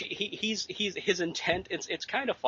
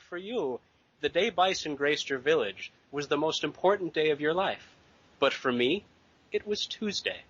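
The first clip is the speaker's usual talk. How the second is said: suave Raul Julia; 3 semitones higher than usual. Retold or imitated. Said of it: "he says the best line of, uh, like, any movie ever".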